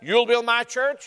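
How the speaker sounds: You'll lifted and rising as the wrong version; rising You'll, a contrast take; stress on YOU'LL. Shown as a demonstration. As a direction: hit You'll to show the mistake. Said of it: "he did not say".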